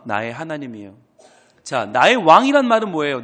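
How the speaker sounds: normal talking voice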